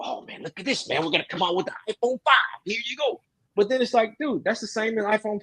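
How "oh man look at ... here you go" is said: a breathy, hushed, fast mock product-launch voice; mock tech presenter. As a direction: hype up the new phone like a smug presenter, quick and hushed. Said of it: "they're like Apple".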